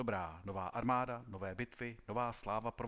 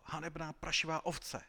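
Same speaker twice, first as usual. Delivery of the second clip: marshal yelling; 7 semitones higher than usual. A narrator's reading. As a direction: yell the insult down at the deserter. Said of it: "křičel velký maršál".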